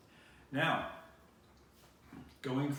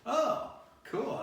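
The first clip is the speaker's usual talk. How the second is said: pleased surprise; 12 semitones higher, 5 dB louder than usual. Retold or imitated. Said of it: "I'm like".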